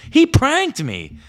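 slow, high, loud wail of betrayal; drawn-out outrage. Retold or imitated. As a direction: stretch out the complaint. Repeated, drawn out.

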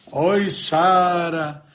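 slow, drawn-out wailing call for Sara; crying lament. Acted. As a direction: moan her name like a heartbroken madman. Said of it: "se lamentando o tempo inteiro". (lamento choroso e arrastado)

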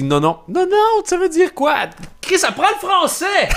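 voix bien plus aiguë, exaspérée; moquerie d'un Français. Retold or imitated. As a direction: imiter un Français qui corrige. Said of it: "chaque fois que j'entends un Français". (un Français qui s'agace du québécois, voix aiguë moqueuse)

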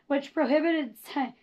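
raspy, cracking voice; hoarse voice. Real, not acted. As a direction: voice giving out mid-word. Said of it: "do you like my voice?".

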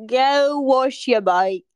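put-on slow, drawn-out British accent. Cohost telling friend to wash the bike, put-on British accent. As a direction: stretch it out in mock British. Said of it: "I don't even have this accent".

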